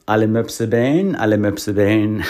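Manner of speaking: emphatic repeated line of verse; comic poem recital. Shown as a demonstration. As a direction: recite the silly rhyme with gusto. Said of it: "Und das geht wie folgt".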